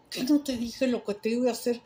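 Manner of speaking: mildly mock-scolding a boy who won't listen; imitating an exasperated priest; angry priest. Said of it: "he was so mad".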